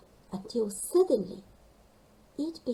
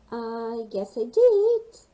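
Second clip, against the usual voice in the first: proud; 7 dB louder, slower than usual. Acted. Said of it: "agreed Gasper, feeling proud".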